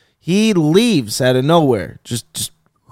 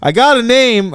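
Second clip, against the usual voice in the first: mock yell back; 5 semitones higher than usual. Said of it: "I, like, yell back".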